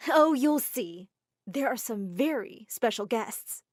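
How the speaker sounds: slow, sing-song tease about the guests; excited teasing. Acted. Mother teasing her son at dinner, slow and excited. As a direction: drag it out, savouring the surprise. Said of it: "she just said excitedly".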